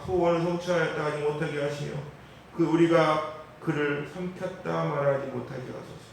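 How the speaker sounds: loud, measured psalm recitation; solemn pulpit reading of the psalm; earnest scripture reading. Acted. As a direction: read the psalm as a plea.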